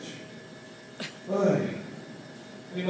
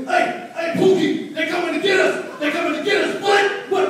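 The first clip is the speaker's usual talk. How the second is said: much higher, much louder barking shout; impression of a rapper; 12 semitones higher, 8 dB louder than usual. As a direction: bark it like the rapper. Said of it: "the rapper barked".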